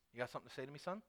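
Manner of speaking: low, quiet Southern challenge; soft-spoken Southern menace; Southern father. Acted. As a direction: confront your son as a Southern dad. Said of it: "this is a Southern thing now".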